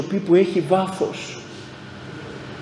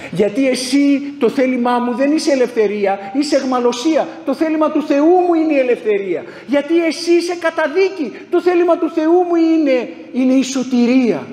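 fervent rebuke; 5 semitones higher than usual. Acted. Preacher rebukes his own will.

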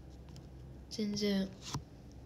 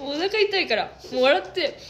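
laughing; 5 semitones higher, 6 dB louder than usual. Real, not acted.

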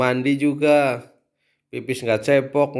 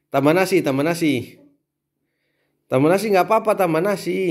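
high, singsong coaxing, a bit louder; 7 semitones higher, 3 dB louder than usual. Acted. Parent urging crying child to take more rice, high singsong coaxing. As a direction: egg the kid on to eat more rice, bright and high.

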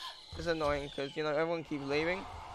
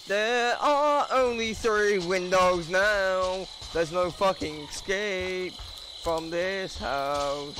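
menacing taunt; slower than usual. Pretend. Taunting the hiding players.

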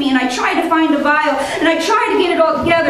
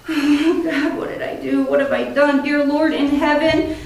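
anguished. Real, not acted. Guilt after patient crashes.

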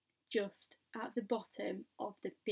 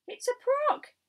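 very high, loud yelp; panicked shouting; 14 semitones higher, 8 dB louder than usual. A narrator's reading. Fireman shouting his guess at the monster, panicked shout. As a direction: pipe up loudly over the crowd. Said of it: "all started shouting at once".

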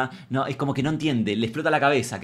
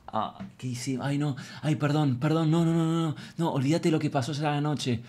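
mock panicked apology; 3 semitones higher, 3 dB quieter than usual. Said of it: "Él abre los ojos y dice".

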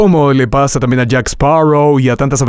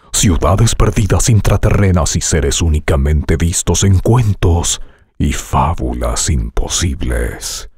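movie trailer voice; 7 semitones lower than usual. Shown as a demonstration. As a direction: announce it like a blockbuster trailer. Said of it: "entrenando tu voz hoy con trailers de películas".

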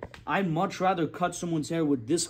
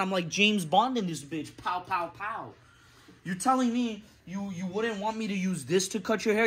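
loud, higher, outraged ranting at Walmart clippers; angry rant; 4 semitones higher, 3 dB louder than usual. Real, not acted. Barber ranting to camera about cheap clippers, loud outrage. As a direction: blow up at the idea of cheap clippers. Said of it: "Had to go on that little rant".

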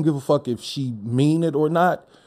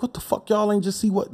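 exasperated disbelief; 10 semitones higher than usual. Retold or imitated. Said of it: "it be like".

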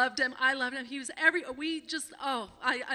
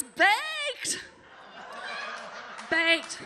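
laughing; 10 semitones higher than usual. Real, not acted. Laughing at the punchline.

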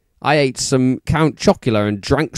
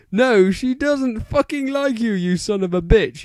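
much higher strained cursing voice; yelled; 8 semitones higher than usual. A narrator's reading. Draco yelling at Vampire, high and strained. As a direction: whine the insult up high. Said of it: "yelled Draco".

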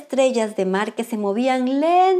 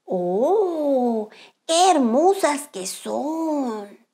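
admiring; much slower than usual. Acted. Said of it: "dijo Cangrejo Ermitaño".

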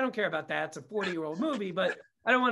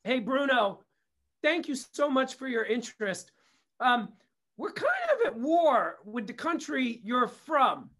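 paraphrased letter voice; 3 semitones higher than usual. Retold or imitated. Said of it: "the gist of the letter was".

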